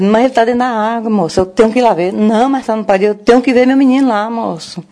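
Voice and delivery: retold insistent plea. Grandmother begs officer to let her see the boy, retold insistent plea. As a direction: plead urgently, re-enacting it.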